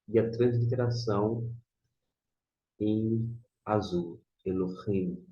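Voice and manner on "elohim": "Elohim" with a rasped throat h; Hebrew pronunciation demo. Shown as a demonstration. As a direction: model "Elohim" carefully, h scraped like Spanish j. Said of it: "Se você pronuncia".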